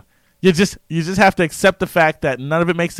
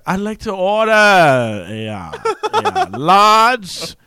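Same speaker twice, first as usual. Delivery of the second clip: put-on drawn-out, loud English accent; higher-pitched English accent at the counter; stuck English accent; 5 semitones higher, 4 dB louder, much slower than usual. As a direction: order in a hammed-up English accent, stretching words. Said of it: "stuck in it and you're trying to order".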